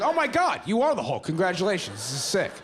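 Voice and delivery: high, excited gasp of wonder; stunned by his friend turning green; mock amazement.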